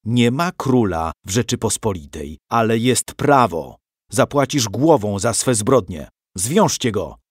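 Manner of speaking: father passing judgement on the outlaw; emphatic. A narrator's reading. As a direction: pronounce the sentence like a judge. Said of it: "rzekł dobitnie".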